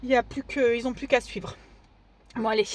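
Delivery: breathless after running, quiet; winded, catching her breath. Real, not acted. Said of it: "Je suis essoufflée parce que je viens de courir".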